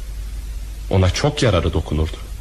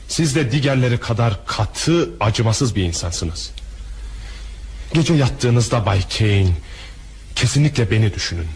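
cold threat. Acted. Bitter threat to the banker.

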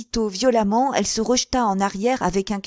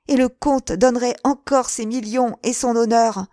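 a touch higher and louder, fevered; Sarah reproaching Daniel; passionate reproach; 3 semitones higher, 4 dB louder than usual. Acted. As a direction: rebuke him with burning love. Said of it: "fit-elle".

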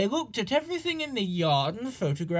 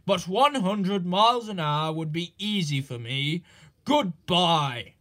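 mock modest Gordon; 3 dB louder than usual. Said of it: "continued Gordon modestly".

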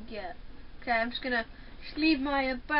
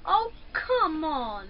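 exasperated groan; 5 dB louder, much slower than usual. Real, not acted. Exasperated at game.

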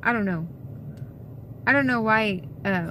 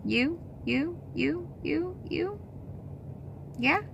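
much higher, much softer puppy coo; 7 semitones higher, 9 dB quieter, slower than usual. Real, not acted. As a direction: coo sweetly to the little dog. Cooing to the dog.

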